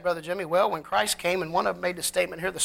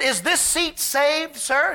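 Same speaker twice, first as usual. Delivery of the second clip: slow, polite question from the lady; mild polite lady voice; lady asking politely; 6 semitones higher, 3 dB louder, slower than usual. Retold or imitated. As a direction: ask gently whether the seat is taken. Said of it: "She said".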